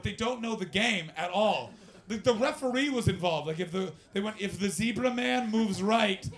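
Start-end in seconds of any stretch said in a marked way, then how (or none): 4.4-6.3 put-on emphatic comic Russian accent; imitated Russian accent. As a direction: lay down drinking rules in a loud Russian accent. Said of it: "a bunch of guys from Moscow".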